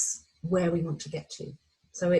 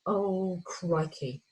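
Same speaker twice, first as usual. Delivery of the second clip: quiet slow crikey; 5 dB quieter, much slower than usual. Retold or imitated. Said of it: "that excitement of going".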